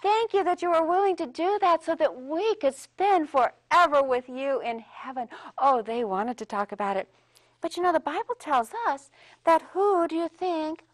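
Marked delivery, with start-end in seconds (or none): 0.0-5.3 mildly excited thanks. Retold or imitated. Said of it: "They were so excited".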